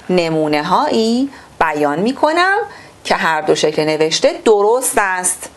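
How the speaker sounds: measured, formal reading-aloud voice; textbook reading. Acted. Teacher reading the textbook to pupils, formal and measured.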